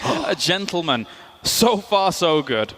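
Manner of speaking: slow, drawn-out host voice; reality show host. Acted. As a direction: linger on every word like a TV host. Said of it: "You sound like a reality show host".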